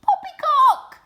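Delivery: very high, loud scornful squeal; scoffing rat. A narrator's reading. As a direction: sneer it with a laugh.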